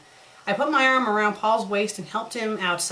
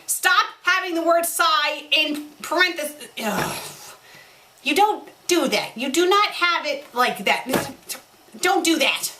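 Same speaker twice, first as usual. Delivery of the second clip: exasperated scolding; 6 semitones higher than usual. Real, not acted. Reader scolding the fic writer, exasperated. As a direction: tell the writer off, fed up.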